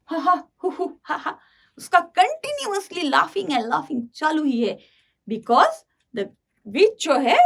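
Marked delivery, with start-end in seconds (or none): 0.0-1.4 spelt-out ha-ha, hoo-hoo; imitating helpless laughter; uncontrolled mock laugh. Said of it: "Unable to control himself". (बेकाबू हँसी की नकल)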